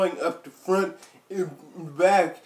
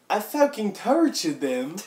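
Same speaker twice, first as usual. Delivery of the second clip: silly put-on voice; 4 semitones higher than usual. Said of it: "What was that voice you just did".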